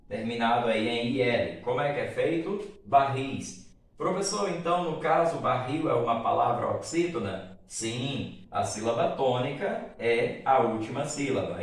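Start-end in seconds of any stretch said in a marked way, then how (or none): 4.0-7.6 lightly voiced student asking the teacher, pitched up at the start; a hint of a questioning pupil; student's question. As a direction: raise the voice slightly as a pupil checking a point.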